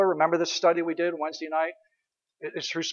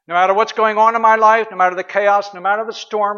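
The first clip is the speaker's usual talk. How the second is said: louder, rising earnest plea; fervent prayer; 3 semitones higher, 5 dB louder than usual. Shown as a demonstration. Preacher praying through the storm, fervent and louder. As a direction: press it out with conviction. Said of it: "Let me give you an example".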